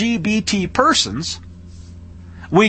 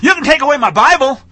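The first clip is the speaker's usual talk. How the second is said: mock frantic preacher; 3 semitones higher than usual. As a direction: beg in mock outrage, hammed-up. Mock panicked preacher pleading.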